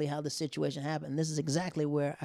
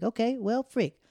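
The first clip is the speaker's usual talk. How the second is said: dismayed; 8 semitones higher, 5 dB louder, slower than usual. Retold or imitated. Dismayed reaction.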